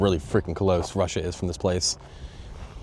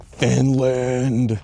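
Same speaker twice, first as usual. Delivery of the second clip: loud, higher meme-character shout; Patrick Star; 5 semitones higher, 5 dB louder than usual. Retold or imitated. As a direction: belt it out like a drawn-out cartoon cry. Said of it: "that Patrick Star meme where he's like".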